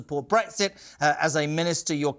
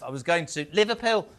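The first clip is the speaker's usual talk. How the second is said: a faint hint of a Scouse accent on Liverpool; slight Liverpool accent. Real, not acted. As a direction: slip lightly into a Liverpool accent. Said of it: "I don't know why I've done that accent".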